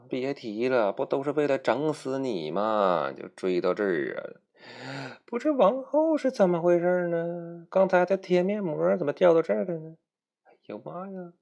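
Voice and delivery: high, sharp voice of Xiaolan the sea witch; 提高嗓门演海妖小兰. Acted. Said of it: "还有小兰说". (尖声的海妖小兰)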